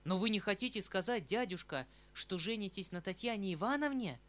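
nephew's alarmed cry at the news; frightened outcry. Acted. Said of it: "вскричал я в испуге".

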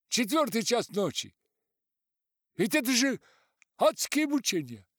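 high, loud exasperated complaint; angry nanny. Acted. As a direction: complain furiously.

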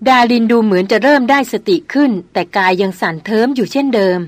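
plain reading voice

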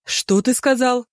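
high, slow astonished question; exclaiming in surprise. A narrator's reading. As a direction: ask it stunned, drawn out. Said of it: "воскликнул судья".

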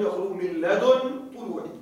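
"لدن" with the nun given a sukun; pronunciation demo. Shown as a demonstration. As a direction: say "لدن" with a silent final nun. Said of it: "بالتسكين". (نطق "لدن" بتسكين النون)

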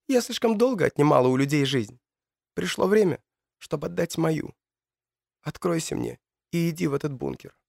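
lightly voiced young woman, pleading. Matilda offers her life.

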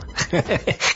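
high breathy giggling; tittering to himself; giggle. A narrator's reading. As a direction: burst into a silly high giggle. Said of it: "тут же захихикал".

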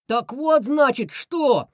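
high, loud villain losing patience; high-pitched irritated outburst; sudden angry bark. A narrator's reading. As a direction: snap it out in a high cartoon voice. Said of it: "рявкнул вдруг Крысион".

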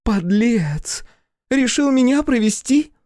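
very high, loud angry cry; drunken fury. Acted. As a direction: snap at him, furious and tipsy. Drunk daughter realises trick.

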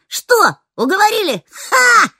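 mocking taunt. A narrator's reading. Нером дразнит Рифта, качаясь на стуле, mocking jeer. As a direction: crow at him with a scornful ha. Nerom mocks Rift.

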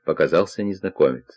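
plain reading voice

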